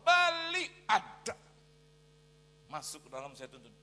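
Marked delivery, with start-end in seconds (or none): 0.1-1.3 high, very loud burst; mock insistent shout. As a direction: shout down the objection, hammed-up. Retold insistence on buying.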